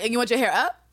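rising disbelief to a squeal; incredulous. Retold or imitated. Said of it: "she was like".

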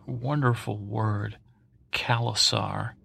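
Khalasar said slowly, lingering on each syllable; savoring the word. Shown as a demonstration. Podcaster relishes the word Khalasar, slow. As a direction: roll out Khalasar slowly and fondly. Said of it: "it just rolls".

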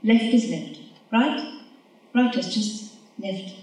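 deliberate, measured poem reading; poem recital. Acted. Reciting a sound poem to the audience, measured.

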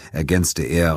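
ordinary delivery, nothing marked

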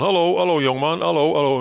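retold greeting called out high and bright; mock calling hello.

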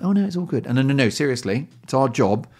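high, breezy polite brush-off; imitating overly polite British colleagues; mock polite brush-off. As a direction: sing it up high like a polite Brit waving off a problem. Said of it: "They're very polite".

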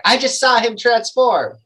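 high, loud and slow; alarmed accusation. Acted. Short guy points at the shapeshifter, alarmed accusation.

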